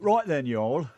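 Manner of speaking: mock British-Tennessee hybrid accent. Shown as a demonstration. Co-host performing a requested accent for listeners, British Tennessee. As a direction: put on a British drawl of Tennessee. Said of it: "You can do a British Tennessee".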